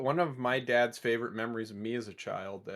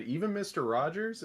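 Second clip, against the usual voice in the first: put-on child asking; 8 semitones higher than usual. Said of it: "I said".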